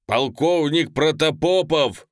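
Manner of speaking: loud, slow call of a colonel's name; general's shout. A narrator's reading. General shouting to the colonel across the troops. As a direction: bellow the rank and name. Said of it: "кричит генерал Саблин".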